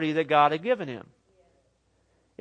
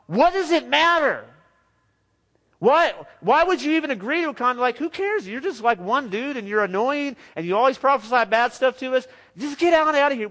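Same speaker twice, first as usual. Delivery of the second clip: higher-pitched, incredulous brush-off; mock dismissive; 5 semitones higher than usual. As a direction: imitate someone scornfully waving off a pest. Imagined prophets dismissing Elijah's challenge.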